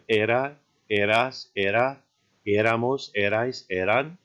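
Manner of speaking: era, eras, éramos, each leaning on the opening E; E-ra, E-ras, E-ra-mos, front-stressed; stress on first syllable. Shown as a demonstration. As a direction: recite era to eran as a list, stressing the first E. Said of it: "notice that same kind of stress".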